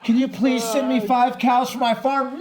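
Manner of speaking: mock the sister's sweet request; imitating sister's request. Retelling sister asking him for cows on Facebook, slow pleading. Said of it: "I have a message".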